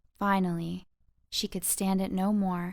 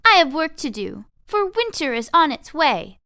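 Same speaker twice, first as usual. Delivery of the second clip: loud, higher, impatient scolding; grouchy retort; 7 semitones higher, 10 dB louder than usual. Acted. Tweez brushing off a teasing mouse, loud and impatient. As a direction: brush him off, busy and cross.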